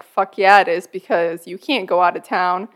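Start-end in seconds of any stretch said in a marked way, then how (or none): 0.0-0.9 emphatic. Retold or imitated. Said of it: "I was like".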